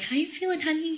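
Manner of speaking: high, gentle mom voice; nurturing mom. Retold or imitated. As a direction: imitate mom checking in tenderly, high and unforced. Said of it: "in her nurturing, wonderful ways".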